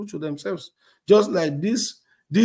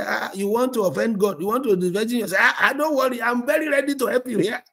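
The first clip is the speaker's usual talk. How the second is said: a hint of an eager sleazy pastor, quick; mock the predatory pastor; lightly voiced leering pastor; mock randy pastor; 6 semitones higher than usual. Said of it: "the kind of pastor that will say".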